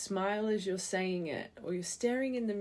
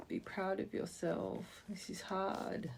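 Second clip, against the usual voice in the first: tender; 7 dB quieter than usual. Real, not acted. Tender encouragement to the viewer.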